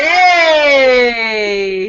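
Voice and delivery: loud happy Yay; cheerful cheer. Real, not acted. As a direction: cheer with joy. Celebrating the exercise.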